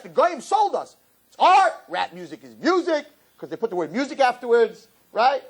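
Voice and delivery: high, mocking sarcasm; sarcastic rant. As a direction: ridicule the excuse in a squeaky voice.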